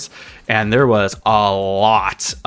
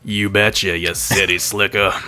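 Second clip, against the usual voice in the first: fake cowboy accent; 3 semitones lower than usual. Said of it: "You're already getting into the role".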